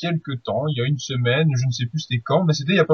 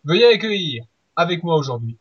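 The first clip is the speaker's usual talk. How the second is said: grand entrance announcement. Acted. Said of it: "je vais les appeler tous les deux ensemble".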